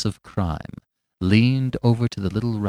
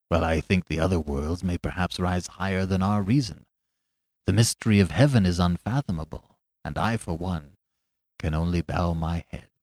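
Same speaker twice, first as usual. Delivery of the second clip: bow your head and murmur it lower; simple low reply; 4 semitones lower than usual. Acted. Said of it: "he said simply".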